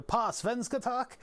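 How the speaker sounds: high, slow Swedish lilt; mock Swedish. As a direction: sing it like a Swedish prompt. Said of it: "and the next for it".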